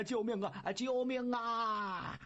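long drawn-out panicked cry; old Laojun scrambling away, wailing for help. Acted. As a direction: stretch it out, fleeing in terror. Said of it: "连滚带爬往外头就跑".

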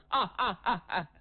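brief, acted laugh of defiance; scornful laugh. Hero threatened with death, laughs it off.

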